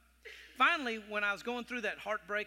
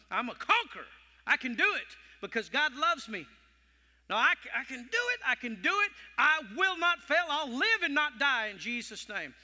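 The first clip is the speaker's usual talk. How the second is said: preaching declaration; 2 semitones higher, 3 dB louder than usual. Acted. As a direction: proclaim it like a conqueror. Declares faith at full force.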